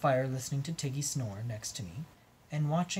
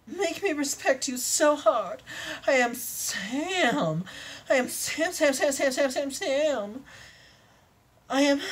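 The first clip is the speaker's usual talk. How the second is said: high eager unicorn; 11 semitones higher than usual. Acted. Unicorn telling her lover the safe words, high and eager. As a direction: chirp it out like a giddy unicorn. Unicorn character raving, singing.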